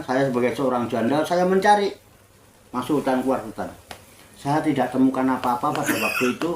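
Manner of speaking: a touch of weeping in a widow's tale; tearful widow. Acted. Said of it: "tambah nangis". (janda bercerita sambil sedikit menangis)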